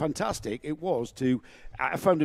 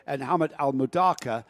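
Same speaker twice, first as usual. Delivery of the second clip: race commentary. Acted. Reading the grid.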